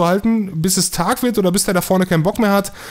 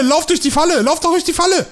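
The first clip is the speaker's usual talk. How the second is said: high, eager yelling at the screen; high-pitched goading; excited urging; 10 semitones higher than usual. Real, not acted. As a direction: egg them on into the trap. Urging enemies into trap.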